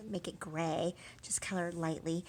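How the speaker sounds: soft whisper while drawing; quiet demo whisper. Real, not acted. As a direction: hush as you show the light strokes. Demonstrating light coloring, hushed.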